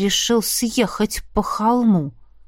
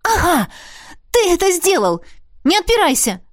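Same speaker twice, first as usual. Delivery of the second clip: triumphant, higher cry; exclaimed; 9 semitones higher than usual. Acted. Arnella catching Roderick out, triumphant higher cry. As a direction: caught you, shout it out. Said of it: "я выкрикнула".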